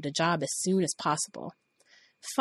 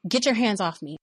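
yell; 3 semitones higher than usual. Retold or imitated. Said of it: "I yelled".

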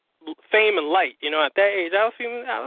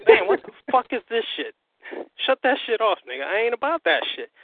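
retold indignation, raised pitch; outraged refusal; 4 semitones higher than usual. Storyteller replays objecting to the video, mildly outraged.

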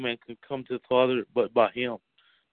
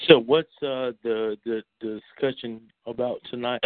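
speaking through hiccups; hiccuping between words. Real, not acted. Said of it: "excuse me, I have the hiccups".

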